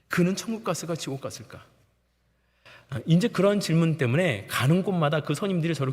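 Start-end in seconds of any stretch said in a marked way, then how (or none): 0.1-1.6 hushed wondering. Retold or imitated. Inner question about the admiral.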